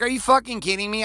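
a sudden high, exasperated "are you kidding me"; incredulous retort. Retold or imitated. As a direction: fire back like you can't believe what you just heard. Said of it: "And you're like".

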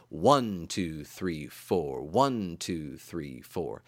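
strong ONE, the rest dropped soft; counting the beat. Shown as a demonstration. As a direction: stress the one, let two three four fall away. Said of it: "what we call four four time".

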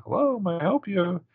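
high, chirpy put-on receptionist voice; prim receptionist. The assistant answering Hannah's call in a high chirpy receptionist voice. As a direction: answer the phone like a perky assistant. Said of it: "we hear the assistant kinda like".

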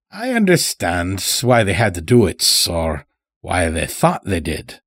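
put-on folksy old-timer, mildly reassuring; lightly voiced old farmer. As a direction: lightly play a rustic captive pleading harmlessness. Old captive farmer speaks in story.

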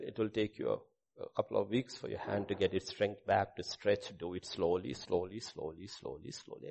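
softly imitating a kind doctor; kindly doctor, retold. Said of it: "very kindly".

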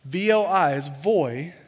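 put-on slow, careful voi rhymed with boy; pronounce voi. Shown as a demonstration. Pastor teaching the congregation the Italian voi slowly. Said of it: "so I'd say it right".

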